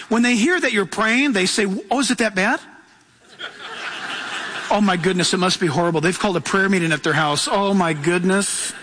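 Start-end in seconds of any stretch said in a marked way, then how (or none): 1.9-8.7 hammed-up pious dismay; mock concern. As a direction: imitate alarmed churchgoers hearing of prayer. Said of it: "People who are religious".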